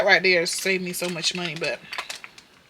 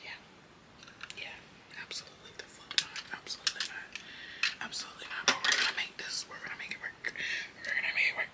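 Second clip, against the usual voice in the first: near-silent whisper to yourself; whispered muttering; 12 dB quieter than usual. Real, not acted. Reacting to her makeup in the mirror, whispering to herself. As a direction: whisper it through the frustration.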